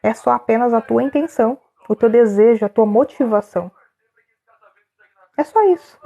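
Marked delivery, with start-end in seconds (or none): 5.4-6.0 high bright closing line; emphatic wrap-up. Real, not acted. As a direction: land it with a lift. Sums up the point. (bem enfático e alto)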